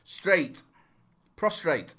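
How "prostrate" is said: "Prostrate" with an extra R, set apart; deliberate mispronunciation. Shown as a demonstration. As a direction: repeat the slip, "Prostrate" ending in -trate. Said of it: "you're saying prostrate".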